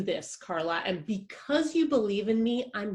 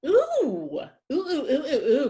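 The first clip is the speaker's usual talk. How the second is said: giddy squeal; 6 semitones higher, 3 dB louder than usual. Acted. Giddy at the idea.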